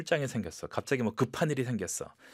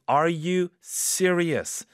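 surprised; 6 semitones higher, 4 dB louder, much slower than usual. Shown as a demonstration. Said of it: "surprise number two".

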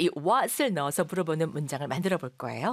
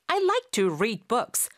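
slow model; 4 semitones higher, 3 dB louder, much slower than usual. Shown as a demonstration. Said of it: "라고 하는 경우가 많습니다".

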